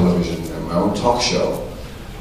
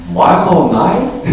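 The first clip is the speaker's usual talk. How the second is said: slow, high questioning masseur; 9 semitones higher, 5 dB louder, much slower than usual. Retold or imitated. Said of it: "I said".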